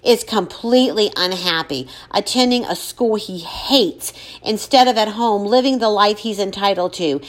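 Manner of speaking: lightly trembling voice; shaking voice. Acted. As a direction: speak through held-back tears. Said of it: "her voice shaking".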